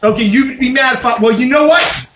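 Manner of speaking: ordinary delivery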